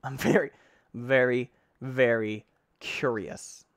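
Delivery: each "very" punched separately, with pauses; slow down and lean on every "very"; emphatic repetition. Real, not acted. Player wondering what lies below, emphatic and deliberate.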